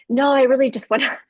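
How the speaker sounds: retold reluctance, quick and comic; reluctant protest. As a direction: plead to get out of it, half laughing.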